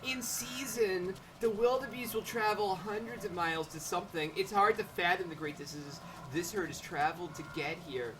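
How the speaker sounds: measured put-on nature narration; game guide read-aloud. Guide explaining the herd's long travels, put-on narration.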